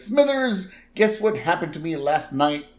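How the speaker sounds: high mock Burns call; a touch of gleeful old boss; lightly imitating Mr. Burns; Burns quote. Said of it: "And he says".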